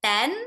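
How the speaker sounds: ten with a hard curled-back T, no puff; Indian hard T. Shown as a demonstration. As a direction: say ten with the T of tamatar. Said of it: "we are using ter se tomater and not T".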